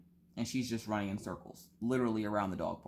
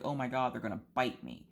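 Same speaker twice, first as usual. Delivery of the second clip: mock fear of biting; 2 semitones higher than usual. Voicing the dog afraid for her ankles, mock fear of biting. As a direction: imitate a dog fretting about a nip, stress on "bite". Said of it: "It's more like".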